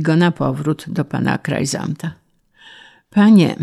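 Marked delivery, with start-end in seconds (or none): 3.1-3.6 raised, mildly fearful plea; a touch of timid protest; trembling lips. A narrator's reading. Beaten peasant starting a protest to the official, timidly. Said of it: "zaczął dobrobyt trząsącymi się usty".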